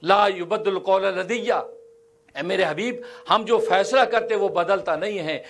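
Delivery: a hint of a solemn, commanding divine voice; voice of God. A touch of God's solemn voice addressing His beloved. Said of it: "اللہ کی آواز".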